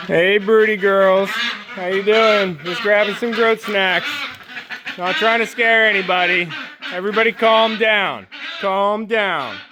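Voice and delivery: calm the nervous hens gently; soothing. Real, not acted.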